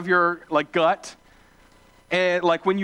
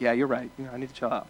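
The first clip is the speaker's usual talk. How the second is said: meek concession; 6 semitones lower, 6 dB quieter, faster than usual. Retold or imitated. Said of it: "in the other hand, I'm like".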